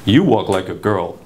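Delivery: low, slow mock of a teacher; a hint of a scornful choir director. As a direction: drop the voice and sneer it out slowly. Teacher's mocking quote, opening line.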